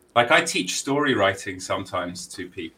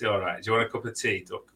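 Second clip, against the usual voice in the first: quick, softer Yorkshire accent; Yorkshire accent, tossed off quickly; 6 dB quieter, faster than usual. Shown as a demonstration. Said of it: "where they talk like this".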